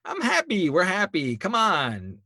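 high, hammed-up teary voice; fake-cheerful sobbing act; mock tearful cheer; mock crying Joseph. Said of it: "he's crying through all this".

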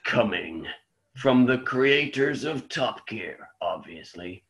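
deep dramatic trailer announcer; movie trailer voice. Pretend.

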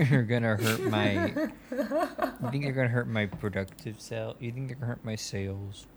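slow, mopey put-on voice, half laughing through it; a hint of a whiny baby, dragged out slowly; sad baby-talk exec. Company exec sulking to the podcast hosts, slow and mopey. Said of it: "Mason, you should keep talking like that. That's the character".

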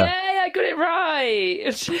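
high, drawn-out squeal of triumph; real gleeful high-pitched cheer; delighted cheer. Real, not acted. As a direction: celebrate a win, stretching it out high. Delighted at winning the quiz.

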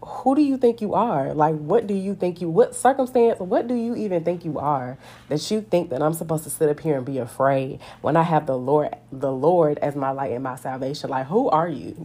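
scoffing at a threat that cannot touch her; defiant taunt. Pretend. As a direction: talk down to the circumstance. Taunting a personified circumstance.

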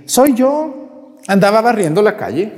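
a hint of the sweeping lady, caught out; sick woman's voice. To the priest at her door, a lightly voiced old woman.

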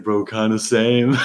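slow, lazy bro drawl; drawled mock bro voice. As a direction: stretch it out like a chill bro. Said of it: "And he's like".

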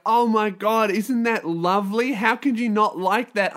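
mildly mock-enchanted quote of a friend; gushing friend. Voicing gushing friend's reaction.

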